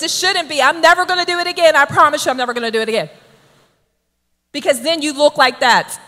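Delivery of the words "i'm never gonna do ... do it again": hurried promise. Acted. Voices a rash promise prayer.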